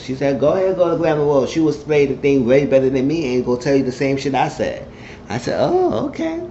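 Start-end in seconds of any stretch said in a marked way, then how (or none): 0.4-4.8 quick, raised, mocking go-ahead; fast high sass; sassy dismissal. Woman dismissing the narrator in retold scene. 5.6-6.4 squeaky high oh okay; high startled oh; surprised okay. Retold or imitated. Narrator's own retold reaction.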